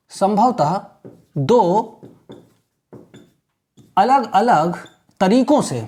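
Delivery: word by word with long pauses; slow, broken dictation. Shown as a demonstration. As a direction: dictate slowly, pausing between words. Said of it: "मैं इसको ऐसे बताऊंगा आपको". (रुक-रुक कर धीमे बोलना)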